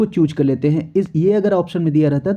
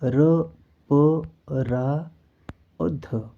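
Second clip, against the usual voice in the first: spelling out letters; 4 dB quieter, much slower than usual. Shown as a demonstration. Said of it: "ध्यान रखिएगा आप कि नि".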